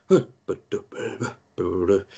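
imitated huffing, half-formed syllables; befuddled humming and jumbling. Game master acting out a disoriented man, humming and jumbling. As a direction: bumble wordlessly like a wealthy duffer. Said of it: "particular type of humming and jumbling".

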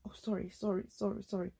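quick soft apologetic sorries; reflexive sorry. Retold or imitated. Mumbling sorry to the stranger who stepped on her foot, softly. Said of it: "sometimes you just say".

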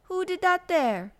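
loud, high astonished demand; high, forceful startled question; surprised cry. A narrator's reading. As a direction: call it out in amazement. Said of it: "he cried".

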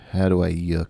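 put-on child quote. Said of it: "she goes".

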